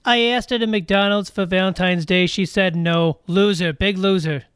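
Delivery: put-on loud, rough New York accent; brash New York tough-guy voice. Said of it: "Your New York accent could use a little work".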